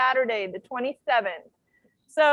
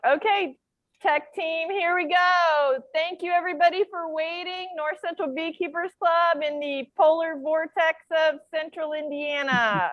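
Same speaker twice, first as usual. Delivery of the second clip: bus driver voice. Real, not acted. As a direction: carry it to the back row. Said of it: "I'll use my bus driver voice".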